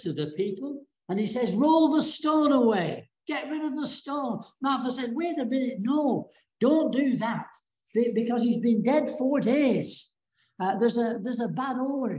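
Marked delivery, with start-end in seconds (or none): 1.5-4.4 high, emphatic acted order; retold command. Jesus turns to the people at the tomb, high retold command. 5.1-12.1 high-pitched mock objection; retold protest. Martha objects at her brother's tomb, high retold protest.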